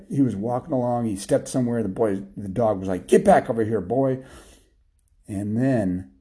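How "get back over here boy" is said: mild bossy yell; yelling dog master. Acted. Dog yelling at the boy on a leash, bossy yell. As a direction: order him back like a dog's master. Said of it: "the dog would yell at it".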